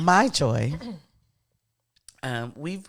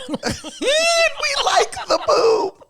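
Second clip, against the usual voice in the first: laughing; much slower than usual. Real, not acted. Shout laugh.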